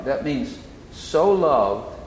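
so lifted and drawn out; "so loved" with a slow rising so; stress on so. Shown as a demonstration. Preacher explains so as in such a way. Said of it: "in such a way".

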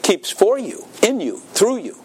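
rising preacher fervor. Acted. Preacher building to climax.

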